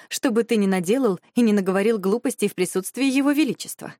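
eager, bright-voiced teasing; light excited disbelief. Eager playful reply.

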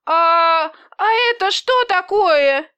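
high, loud startled fear; frightened cry. A narrator's reading. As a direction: gasp it out, suddenly scared of the belly. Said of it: "испуганно округлив глаза".

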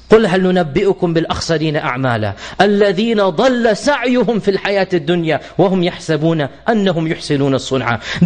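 brisk melodic Arabic recitation of the verse; Quran recitation. Acted. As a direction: chant the ayah in tajweed style.

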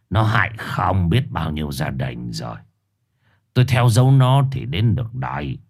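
lightly voiced stern old shaman; a hint of a grave, measured shaman. Shaman gravely addressing the family, mildly stern. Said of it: "cau mày lại nghiêm giọng".

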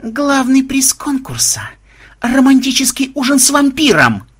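high, drawn-out sardonic proclamation; mock prize announcement. A narrator's reading. Vampire offering attackers a dinner prize, sardonic. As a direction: announce it with menacing mock ceremony.

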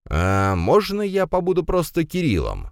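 high, careful question; cautious request. A narrator's reading. Guest asks father about his name, cautiously. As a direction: ask gingerly, raising the pitch. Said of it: "осторожно спросил гость".

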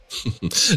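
short mocking laugh; brief scornful chuckle; sarcastic laugh. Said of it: "ضحكت بسخرية".

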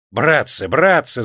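pleading yell, rising on the repeat; crying out. A narrator's reading. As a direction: cry out to them for mercy. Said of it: "завопил Селезень".

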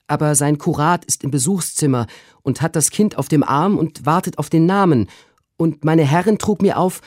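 high, loud, hurried maid reporting; high excited servant voice; flustered maid. A narrator's reading. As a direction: rattle off the message from the mistress. Maid's long breathless report.

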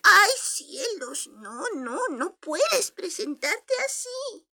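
high, slow shocked fuss; dismayed old lady. Acted. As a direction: gasp at the shabby dress. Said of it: "vio el viejo vestido".

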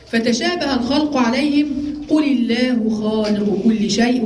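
slow recitation of the verse; slow measured verse recitation; Quran recitation. Acted. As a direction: draw out "قل الله" slowly.

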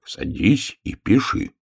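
measured, insistent little-bear order; stern. Acted. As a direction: order it firmly, word by word. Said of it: "строго сказал медвежонок". (строго, наставительно)

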